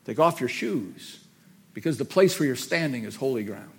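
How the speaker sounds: lightly voiced divine order, unhurried; the Lord. The Lord to Moses at the burning bush, measured command. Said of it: "hears the voice of the Lord say".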